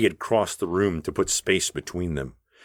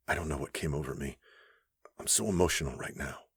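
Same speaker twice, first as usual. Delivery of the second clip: flustered; 4 semitones lower, 10 dB quieter, faster than usual. A narrator's reading. Upset wife apologising.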